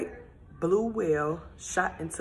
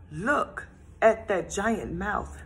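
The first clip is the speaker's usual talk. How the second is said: slow, odd little fish voice, eyes wide; a nervous fish sizing up the whale; spoken slowly in a small worried fish voice; wary fish voice; 3 semitones higher, slower than usual. Acted.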